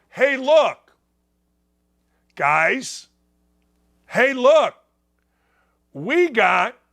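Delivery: smug mock boast. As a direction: sneer it like a gloating brag. Mocking the US boast.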